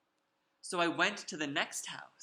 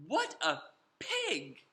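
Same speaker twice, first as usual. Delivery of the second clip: indignant; 3 semitones higher, slower than usual. Acted. Indignant exclamation about the pig.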